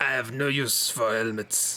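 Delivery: low, bad put-on German accent slipping into French. Reading a story about a boasting driver, voicing him in a German accent turning French. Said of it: "He's now French".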